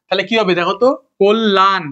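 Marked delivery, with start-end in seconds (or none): 1.2-1.8 কল্যাণ sounded as "kol-lan"; doubled l. Shown as a demonstration. Teacher asking students to spell by sound, কল্যাণ as "kol-lan". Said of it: "তাহলে কোল".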